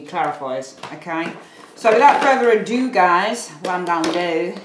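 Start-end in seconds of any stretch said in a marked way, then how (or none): 1.7-4.5 put-on playful, amateur American accent. Reader hamming it up for her viewers, mock American accent. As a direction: slip into a silly American accent. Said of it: "I'm talking in an American accent".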